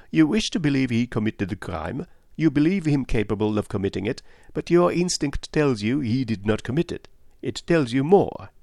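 Poirot. Acted. Detective confronts a woman with her instinct, insistently. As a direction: press the point home.

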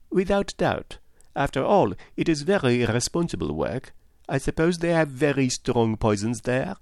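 agree, then probe politely; inquisitive detective Poirot. Acted. Narrator voices Poirot.

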